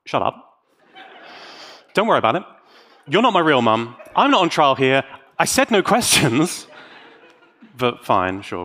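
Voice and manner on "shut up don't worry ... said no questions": mock defensive outburst. Speaker hams up a tantrum at an imagined critic, mock angry. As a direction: brush off the critic like a sulky teen. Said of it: "And to that I say".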